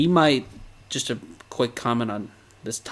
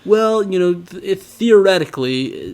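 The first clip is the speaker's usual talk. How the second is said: lightly voiced Titan reasoning aloud, higher and louder; mock deliberation, raised and emphatic; pondering Titan; 6 semitones higher, 6 dB louder than usual. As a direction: play a Titan hemming and hawing, pitched up. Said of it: "it's like the Titan just knows".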